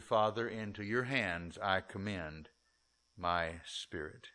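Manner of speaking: last words, barely there; fading final breath. Acted. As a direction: let the voice give out.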